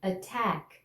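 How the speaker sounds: "Attack" with a firm T, never tapped; crisp unflapped T in "Attack"; correct stop T. Shown as a demonstration. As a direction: model "Attack" stressed on the second syllable with a true T. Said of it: "Não posso falar attack".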